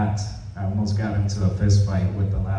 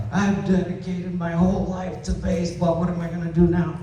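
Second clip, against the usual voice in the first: higher, softer, put-on whining coach; imitating an upset coach; 9 semitones higher, 4 dB quieter than usual. Coach fretting to Robert about his son, imitated distress. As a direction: play the coach's dismay, lightly pitched up. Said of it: "he got upset".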